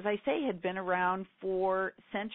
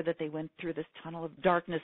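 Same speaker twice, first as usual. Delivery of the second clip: ordinary talk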